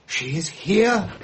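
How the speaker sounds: eerie gasp. Acted. Séance medium calling spirit.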